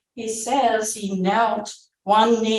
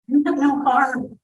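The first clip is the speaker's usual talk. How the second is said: shouted; 7 semitones higher than usual. A narrator's reading. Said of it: "I shouted".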